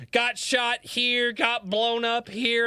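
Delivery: imitating a nonchalant old marine; matter-of-fact veteran. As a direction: toss it off like nothing. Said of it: "He's like".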